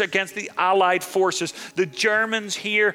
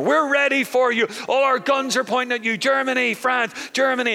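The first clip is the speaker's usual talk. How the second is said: cocky French; 6 semitones higher than usual. Retold or imitated. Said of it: "the French went".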